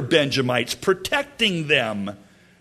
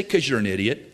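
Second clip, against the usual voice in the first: deadpan put-down; 5 semitones lower, faster than usual. Shown as a demonstration. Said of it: "Just say".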